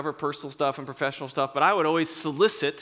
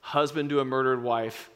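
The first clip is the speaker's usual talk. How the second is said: Maximus vow; 2 semitones lower than usual. Retold or imitated. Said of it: "And he says".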